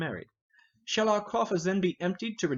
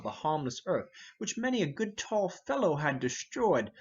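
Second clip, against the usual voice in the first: mocking the fop; 3 semitones higher than usual. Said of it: "talk so like a waiting gentlewoman".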